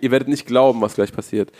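hyped headline tease; clickbait video narrator. Pretend. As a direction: sell it like a viral video. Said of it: "die Weiß-Headline vorwegzunehmen".

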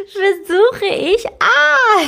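high, slow, startled catch on versuche; catching herself. Real, not acted. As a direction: stop short, caught out by own word. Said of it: "ich hab mich grad selbst erwischt".

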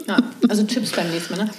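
usual speaking voice

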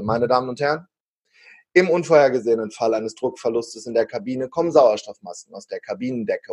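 calm cabin announcement voice; flight attendant announcement. Shown as a demonstration. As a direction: read it like an onboard PA. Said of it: "Moment, ich mach sie, wie ich sie bei der Airline machen würde".

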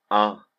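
sudden loud cry of pain; a sharp, shocked scream as he finds blood. A narrator's reading. Vincent discovers the blood on his hand, loud pained cry. Waking to a bleeding ear.

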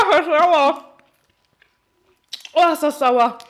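pained by sour taste; squeezing the words out through a sour face. Real, not acted. Reacting to very sour candy.

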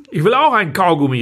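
put-on child calling out. Little Louis calls out to his parents, high and whiny. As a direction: call out like a whiny kid. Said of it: "rief er".

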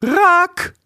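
high, loud scolding call of a name; loud reproachful name call; sharp call. Acted. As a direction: snap him out of his singing. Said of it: "Midas rief".

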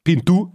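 Pintu with a clear I and sounded N; Spanish-style pronunciation. Shown as a demonstration. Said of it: "ist eher so Spanisch".

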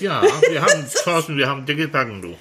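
laughing through a mouthful; mouth full. Real, not acted. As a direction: cheeks full of food. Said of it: "Ja, ganz niedlich".

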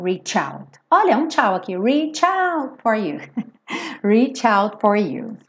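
reach with a tch ending like tchau. Shown as a demonstration. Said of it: "igual do tchau".

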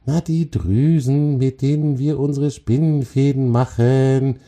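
high, impatient spider voice. A narrator's reading. Spider explains spinning glands to the troll, impatient. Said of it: "antwortete die Spinne ungeduldig".

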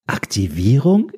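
slow, rising dumb echo; dumbly echoing. Acted. Man echoes the assistant's word, slow and dumb. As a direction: parrot the word back, baffled. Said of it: "äffte ich dümmlich nach".

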